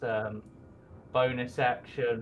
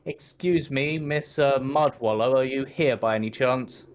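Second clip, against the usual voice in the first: calling out; 2 semitones higher, 4 dB louder than usual. Acted. Adventurer looking for Miss Mudwallow, polite call out. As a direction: call out politely to someone out of sight. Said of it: "I'm just gonna call out".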